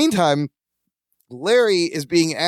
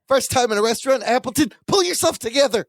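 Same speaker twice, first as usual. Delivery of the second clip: scolding, pitched higher; stern boss; 5 semitones higher than usual. Retold or imitated. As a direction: snap at him like an impatient boss. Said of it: "Burns goes".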